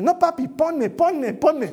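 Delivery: put-on very high little-girl voice, insistent; imitated pleading child. Daughter begging father to put costume on, imitated pleading. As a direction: beg repeatedly like an upset toddler. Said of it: "Y le estaba sacando".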